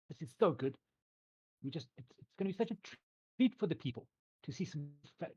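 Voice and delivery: high, loud, welcoming host; cheerful mayor. Acted. GM as the mayor welcoming the travelling musicians, high and bright. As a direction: greet the guests like an eager showman.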